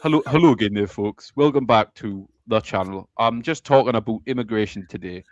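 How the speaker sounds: rusty impression of a Northern English vlogger; mock channel welcome in a put-on Northern English accent; Morgoth. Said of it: "I used to have a really good Morgoth impression".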